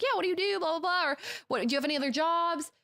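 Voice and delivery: fake friendly chatter. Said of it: "So I'm like".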